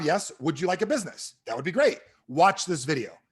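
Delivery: emphatic novice pitch with long pauses; mock rookie sales script; clueless script reading. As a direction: recite the questions and cues straight off the page. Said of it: "This is how bad I was back then".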